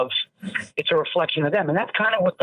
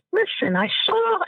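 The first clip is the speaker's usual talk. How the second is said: a mock dad voice, slower, set up to drop; imitating dad before the criticism; dad turning serious. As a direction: start his warning. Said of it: "and then the voice gets lower".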